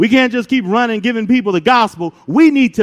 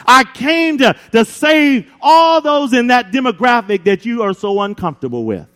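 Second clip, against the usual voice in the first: preaching shout; 3 semitones higher than usual. Real, not acted. Preacher shouts over music.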